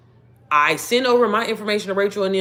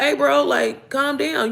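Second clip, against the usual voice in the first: mock calm-down; 7 semitones higher, much slower than usual. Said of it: "I'm be like".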